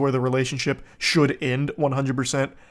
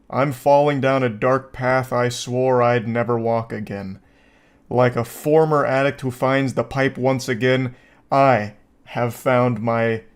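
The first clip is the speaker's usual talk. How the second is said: slow, portentous monologue with lingering words; mock-dramatic confession; 3 semitones lower than usual. Host confessing his relapse to viewers, mock-solemn dramatic narration. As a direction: confess it like a grave fallen addict, tongue in cheek.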